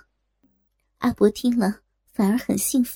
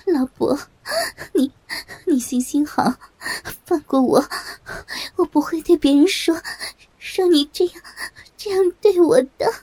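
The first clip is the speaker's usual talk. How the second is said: tearful pleading; 5 semitones higher than usual. Acted. Wife begging the old man to let her go, tearful plea. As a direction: plead with him, voice rising in distress. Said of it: "我不无难过地说".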